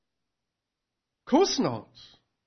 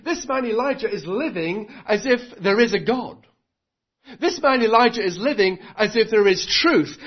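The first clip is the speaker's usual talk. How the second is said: Ahab's thoughts. Acted. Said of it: "Because Ahab is thinking".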